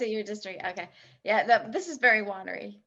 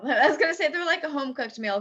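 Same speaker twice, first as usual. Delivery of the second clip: laughing through the words, higher; amused chuckle; 4 semitones higher than usual. Real, not acted. Co-host confessing a silly food comparison, laughing. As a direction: admit it with a laugh.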